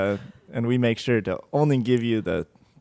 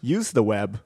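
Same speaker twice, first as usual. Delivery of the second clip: announcer voice; 2 semitones higher, 7 dB louder than usual. Pretend. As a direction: boom it out like a game show host. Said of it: "announcer voice".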